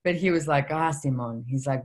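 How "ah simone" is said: lightly put-on Lithuanian accent; a rough attempt at a Lithuanian accent; bad Lithuanian accent. Father from Lithuania reacting to his daughter, mock Lithuanian accent. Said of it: "do a really bad Lithuanian accent".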